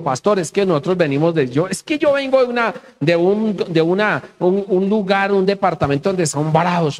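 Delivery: lightly voiced, halting excuse to the pastor; imitated congregant. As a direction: stumble over the start, pitch jumping up briefly. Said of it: "alguien me llegó y me dijo". (imitando levemente a un feligrés que titubea)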